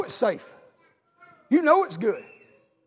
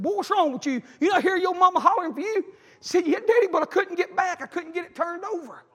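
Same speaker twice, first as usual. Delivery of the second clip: retold agitated exchange; 7 semitones higher than usual. Retelling father scolding, tearful son answering.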